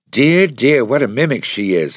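landlady applauding a mimic, high and loud; delighted exclaim. A narrator's reading.

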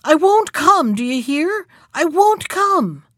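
high, forceful shout of defiance; loud refusal. A narrator's reading. Man defying the unseen voice, loud calling out. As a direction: call out stubbornly, stretching the final words. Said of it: "he called out in a loud voice".

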